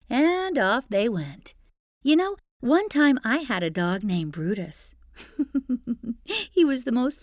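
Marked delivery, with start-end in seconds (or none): none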